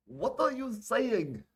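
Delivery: high, drawn-out shout; loud, confused. Acted. Omar asks the soldier through the sandstorm, loud and confused. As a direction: call out loudly over wind, stretching the words. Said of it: "loudly confused".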